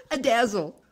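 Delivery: laughing with delight at the word. Real, not acted. Poet laughing at the rhyme she loves, delighted. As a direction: break into laughter, tickled.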